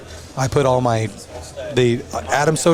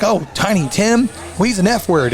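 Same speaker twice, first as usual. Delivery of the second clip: imitating grandma; 6 semitones higher than usual. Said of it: "she'll be like".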